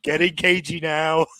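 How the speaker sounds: high laughing tease. Pretend. Teasing through laughter.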